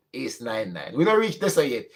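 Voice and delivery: usual speaking voice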